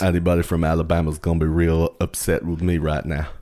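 lightly hammed-up Alabama twang; Alabama accent. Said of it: "Will I do the whole rest of the show like this".

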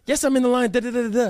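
sassy attitude. Retold or imitated. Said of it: "with hella attitude".

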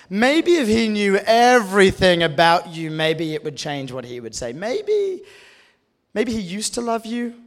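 lightly voiced sneering lawyer, skeptical and probing; a hint of a cross-examining lawyer needling you. Preacher voicing the accusing lawyer voice in your head, skeptical and mocking. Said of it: "I call this the lawyer voice".

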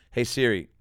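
slow, loud, spelled-out question to the phone; slow voice command. Shown as a demonstration. Comedian asking his phone a cheeky question, slow and loud. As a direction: dictate each word slowly to Siri.

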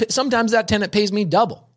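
lightly voiced old lady; high old seller voice. Original take by S0.

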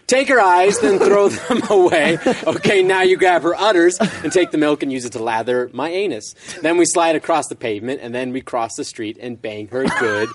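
reading the answer aloud. Shown as a demonstration. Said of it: "Let's read the answer".

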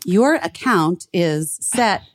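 slow, lightly voiced robot caller. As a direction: read it haltingly like an automated scam call. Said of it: "like, a robot voice".

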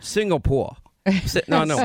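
lightly voiced co-host impression; Linda. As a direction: answer in a mild mimicking voice. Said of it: "and I'll say, Linda, where are we".

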